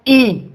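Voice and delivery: ई held long and steady; demo vokal. Shown as a demonstration. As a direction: say ई as a long, front 'ee' sound. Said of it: "बोलो".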